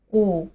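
"u" held long with rounded lips; long vowel demo. Shown as a demonstration. Teacher introduces the second symbol, long rounded "u". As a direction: model a drawn-out, rounded "u". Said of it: "表示这个音是个长音".

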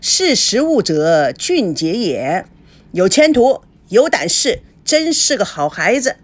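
a boss loudly praising one son-in-law to snub another; exaggerated loud praise. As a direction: praise him loudly so the other one hears. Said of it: "孙正夸张性的大声地说".

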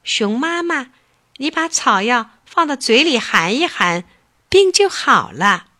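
a helpful bird giving advice; chirpy little bird. Acted. Little bird tells mother bear to take the herb, chirpy voice.

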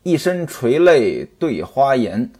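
slow, measured poem recital; chanted storyteller's opening poem; verse recital. Acted. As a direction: intone the opening verse slowly.

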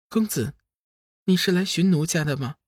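high, coquettish female character voice; seductive fairy. A narrator's reading. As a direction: coo it high and enticing. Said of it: "百花仙子又是在诱惑".

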